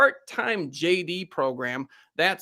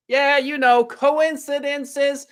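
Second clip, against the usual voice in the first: drawn-out tease; 10 semitones higher, 6 dB louder, slower than usual. Acted. Teasing dramatic host question.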